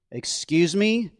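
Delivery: slow, startled question; taken aback. A narrator's reading. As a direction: caught off guard, drawn out. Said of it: "Stephen caught himself".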